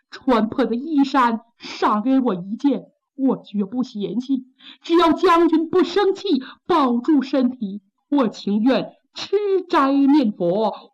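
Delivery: high, tearful begging wife; pleading wife. Acted. Wife reminding her husband of their marriage, tearful and pleading. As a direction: plead with him to remember your love.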